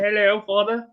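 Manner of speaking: put-on a light British noble accent; posh British accent. Lady on the phone to her father, light British noble accent. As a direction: say it like a well-bred British lady. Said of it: "type of British, like, noble accent".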